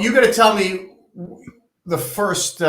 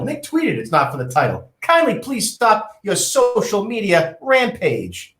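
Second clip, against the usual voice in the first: higher, smug rich boss reading; smug wealthy tycoon; 4 semitones higher than usual. Acted. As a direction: read it like a cocky tycoon. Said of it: "I'm getting into character here".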